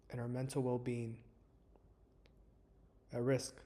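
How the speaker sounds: calm, measured meditation guide with long pauses; guided meditation. Acted. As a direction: ease listeners into stillness, leaving space between phrases. Leads a guided breathing meditation.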